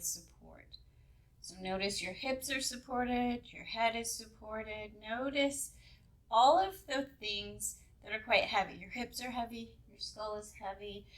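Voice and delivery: unhurried meditation guide, long pauses between instructions; lightly held yoga nidra guiding voice; guided meditation. Acted. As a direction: ease listeners into relaxation, leaving space between phrases.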